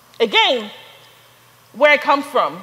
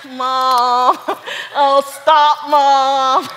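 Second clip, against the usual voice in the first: embarrassed protest; 5 dB louder, much slower than usual. Retold or imitated. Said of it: "you're like".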